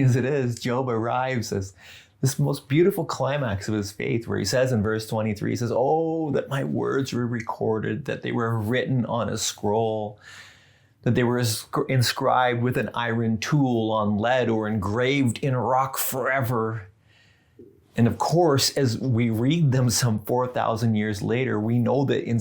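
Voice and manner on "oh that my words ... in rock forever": scripture reading. Acted. Reads Job's climax aloud.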